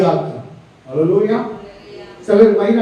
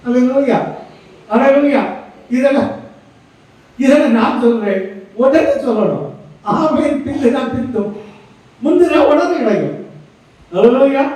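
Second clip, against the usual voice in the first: fervent preaching; 3 semitones higher than usual. Acted. Pastor stirring his church to shout praise. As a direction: rouse the congregation with each alleluia.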